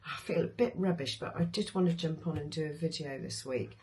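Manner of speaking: tired, worn-out voice after a chest infection; hoarse voice. Real, not acted. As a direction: voice going. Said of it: "as you can hear, my voice is going a bit".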